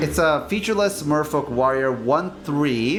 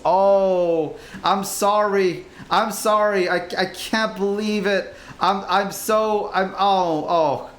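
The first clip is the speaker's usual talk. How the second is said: tag; 4 semitones higher, slower than usual. Pretend. Mock apology for own words.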